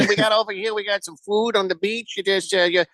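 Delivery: badly faked island welcome in a Caribbean accent; mock Caribbean accent. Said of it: "none of them sound like that".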